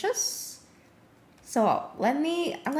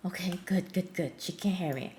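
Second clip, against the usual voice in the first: quiet; 9 semitones lower, 8 dB quieter, faster than usual. Real, not acted. Relieved, quietly checking the AI.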